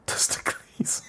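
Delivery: Testicles said TES-tuh-kleez, like a Greek name; mock Greek name. Shown as a demonstration. Laughing, testing how testicles sounds as a Greek name, TES-tuh-kleez. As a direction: whisper Testicles like Socrates. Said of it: "Pronouncing testicles like this".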